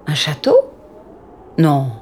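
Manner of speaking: wondering hushed whisper; whisper, awed and wary. Acted. Children approach strange house.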